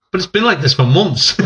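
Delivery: high-pitched mock kid's complaint; protesting child. Grounded boy argues with his mum, high-pitched protest.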